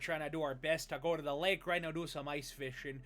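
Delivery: a hint of a Minnesota accent. Streamer mocking Minnesota ice fishers, lightly accented. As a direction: do a light Minnesota lake-trip voice. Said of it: "from Minnesota".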